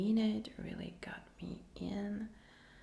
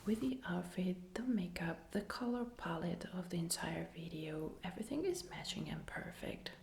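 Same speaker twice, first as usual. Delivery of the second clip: ASMR whisper; slower than usual. Real, not acted. Whispers her whole ASMR reaction.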